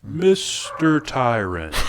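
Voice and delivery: slow, high, breaking into laughter; laughing through a villain line. Acted.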